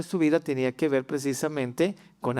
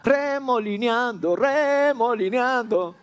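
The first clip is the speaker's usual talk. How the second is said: higher, proud defiant reply, drawn out at the end; defiant David; 7 semitones higher than usual. Pretend. David answering his wife Michal, defiant and joyful. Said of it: "David voltea y le dice".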